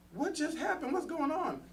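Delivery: high-pitched mock confrontation; acting out a suspicious co-worker; indignant demand. Acted confrontation of laughing co-workers.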